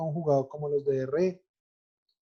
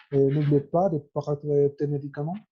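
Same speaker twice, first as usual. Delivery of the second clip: "n'oubliez pas de prendre tes médicaments" said with the mouth more closed, a French tone; more Frenchified. Shown as a demonstration. Teacher repeating the phrase with a more French tone. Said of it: "un poco más cerrada la boca en todo lo que dice".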